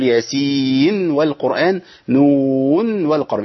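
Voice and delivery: ياسين and نون said slowly, nun sounded before و; clear nun. Shown as a demonstration. Teacher repeats the izhar reading. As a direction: keep the nun distinct before the waw. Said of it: "يظهر النون عند".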